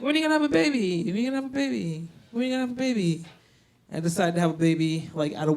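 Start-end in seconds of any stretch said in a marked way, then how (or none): 0.0-3.2 nagging mom. Retold or imitated. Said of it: "she was like".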